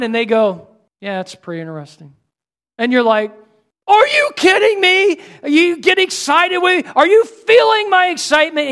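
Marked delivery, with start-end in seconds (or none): 1.0-2.1 bored reply. Retold or imitated. Unimpressed friend reply. 3.9-8.7 much higher, louder, bursting with excitement; excited pleading. Retold or imitated. Frustrated speaker to unmoved friend, bursting excited pleading.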